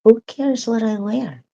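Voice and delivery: high, loud mock defiance; retold defiant shrug; defiant retort. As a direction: toss it off like a dare. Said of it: "I said".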